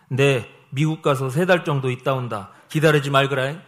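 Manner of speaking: lightly acted blunt, matter-of-fact husband; gruff husband quote. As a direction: imitate a taciturn Gyeongsang husband announcing a trip. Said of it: "그런 무뚝뚝함을 표현한 거죠".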